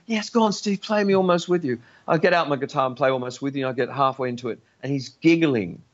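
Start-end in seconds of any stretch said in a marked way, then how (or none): 0.1-1.8 higher teasing plea; a friend faking eagerness for the song; mock pleading. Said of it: "Grant would say to me".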